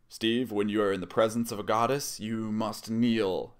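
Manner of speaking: mock a haughty goddess giving orders; imperious command. Acted goddess commanding a man to kneel.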